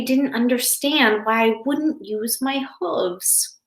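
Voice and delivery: put-on a hurt young zebra pouring out his story to his mother; upset little Zane. Little zebra Zane tells Mama about his bad day, upset child voice.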